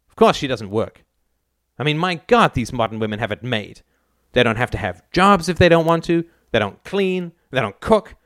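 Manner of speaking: mother ranting at her son about modern women; scornful mother. Acted. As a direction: lecture him with contempt.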